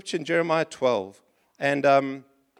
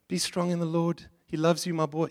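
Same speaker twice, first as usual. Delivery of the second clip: lightly voiced tender comfort. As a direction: comfort him gently, like a father. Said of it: "I would have said to Jeremiah".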